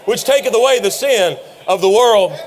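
ringing shout of announcement; big booming proclamation; proclaiming. Acted. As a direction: call it out like a prophet pointing. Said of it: "he says".

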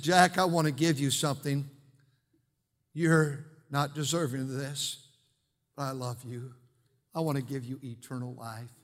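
a hint of a loving father speaking; tender voice of God. God's voice in story.

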